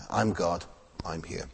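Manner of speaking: soft, hushed voice of God inside; quiet, inward divine voice; quiet inner voice. Retold or imitated. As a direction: murmur it like a voice in your head. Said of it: "speak in a very quiet voice then, inside".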